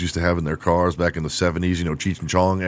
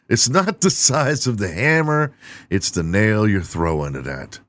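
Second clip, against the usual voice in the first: much higher, punchy delivery of a saying; high proud proverb; 3 semitones higher than usual. Real, not acted. Comedian delivers a botched proverb much higher.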